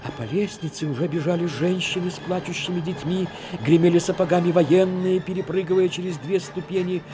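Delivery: ordinary talk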